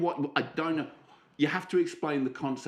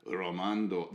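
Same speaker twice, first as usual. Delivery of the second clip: seductive voice; 7 semitones lower, 5 dB quieter, slower than usual. Acted. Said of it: "That was brilliant".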